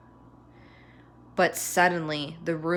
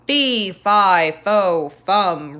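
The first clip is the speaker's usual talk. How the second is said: louder, booming chant hammered syllable by syllable; roaring giant; 6 dB louder, much slower than usual. Acted. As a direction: roar it out like an angry giant. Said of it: "roared the giant".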